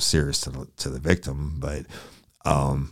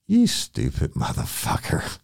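exasperated inner thought. Retold or imitated. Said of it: "and I'm thinking".

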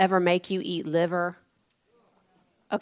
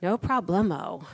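laughing, breezy; 3 dB quieter than usual. Retold or imitated. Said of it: "I'm like".

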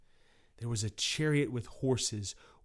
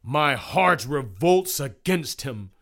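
loud put-on sniveler; sniveling juror; 3 semitones higher, 9 dB louder than usual. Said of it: "sniveled Mister Enmity".

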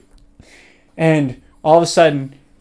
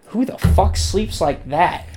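incredulous; 3 semitones higher, slower than usual. Retold or imitated. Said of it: "I'm like".

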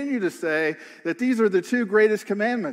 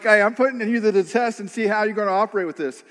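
condescending; 2 semitones higher, faster than usual. Retold or imitated. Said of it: "a condescending question".

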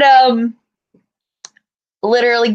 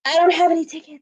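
higher-pitched imitation of condescension; condescending staffer; 5 semitones higher than usual. Guest relations lady refusing tickets, condescending. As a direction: mimic an unhelpful clerk, talking down. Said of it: "she was so condescending".

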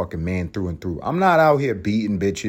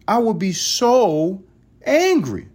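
mock angry; 10 semitones higher, slower than usual. Imagining being a woman.

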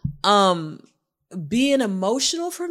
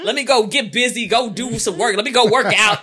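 fleeing feelings; 2 semitones higher, 5 dB louder, faster than usual. Retold or imitated. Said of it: "I'm used to".

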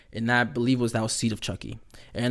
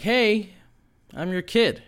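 imitating an eager kid, pitched up; a bright, higher little voice saying hi to its parents; eager kid doll; 6 semitones higher, 4 dB louder, slower than usual. Kid doll greets his parents.

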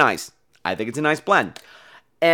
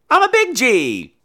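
lightly voiced mob boss, slow and higher; a hint of a mafia don greeting you; mafia tough guy; 5 semitones higher, much slower than usual. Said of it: "It sounds like a mafia name".

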